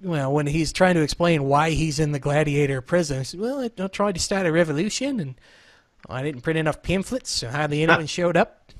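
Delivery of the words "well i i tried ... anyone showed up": lightly imitated New Zealand accent as Korg; Kiwi accent. Retelling Korg's prison story to Josh in a light Kiwi accent. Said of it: "New Zealand accent, a Kiwi accent".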